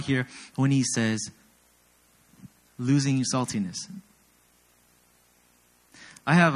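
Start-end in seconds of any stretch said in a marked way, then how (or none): none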